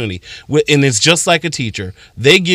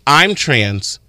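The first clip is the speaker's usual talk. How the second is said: calm explaining; slower than usual. Retold or imitated. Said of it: "a point for you to say".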